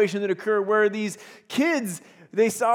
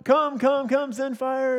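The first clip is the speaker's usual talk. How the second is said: calling out; 5 semitones higher, 4 dB louder, slower than usual. Retold or imitated. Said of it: "they're calling out".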